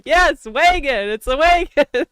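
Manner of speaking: put-on "wagon" drawn out in a thick Wisconsin accent. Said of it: "And I was like".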